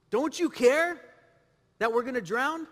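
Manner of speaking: restrained retelling of the disciples' question, lifting on "care"; questioning protest. Acted. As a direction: question him, pausing after "care". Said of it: "They questioned him".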